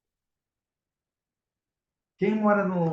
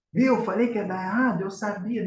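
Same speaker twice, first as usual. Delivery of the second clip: higher, self-defeating I-told-you-so; gloomy inner voice; 5 semitones higher than usual. Pretend. Herself mimicking her inner doubter, higher and sulky. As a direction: play your own pessimistic inner voice. Mocking own negative inner voice.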